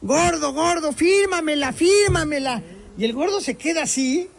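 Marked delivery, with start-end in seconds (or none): 0.0-2.6 high, slow, begging fan voice; eager female fan. Retold or imitated. Woman at the car window begging the host to sign, high and insistent. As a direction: plead insistently for the autograph. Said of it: "y le dice".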